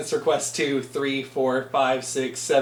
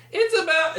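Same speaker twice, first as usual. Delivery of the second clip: vocal fry; 13 semitones higher than usual. Shown as a demonstration. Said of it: "like that".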